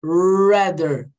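RATHER with a long curled-back R; "Rather" opened on a held English R; retroflex English R. Shown as a demonstration. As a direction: show off the R in "Rather". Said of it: "Olha meu R".

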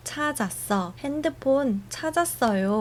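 high quick relieved cry; delighted at finding the phone; excited found it. Shown as a demonstration. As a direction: announce you found it, thrilled. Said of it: "ถ้าสมมติว่าเจอแล้ว".

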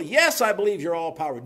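mildly mock the man's urgent agreement; desperate cliff man. Cliff man assuring God of his power, mildly desperate.

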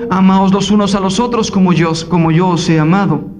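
más grave y solemne, citando a Jesús; palabras de Jesús. Acted. Cita las palabras de Jesucristo. (el predicador cita a Jesús, grave y solemne)

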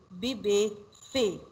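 "Bébé", "fée" with a closed ay-like é; teacher modelling a clear é in "Bébé", "fée"; é sound. Shown as a demonstration. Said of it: "it make it pronounce like A".

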